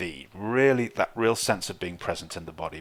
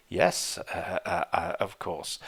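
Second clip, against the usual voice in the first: forced agreement; 5 dB quieter, slower than usual. Retold or imitated. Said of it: "push that down and go".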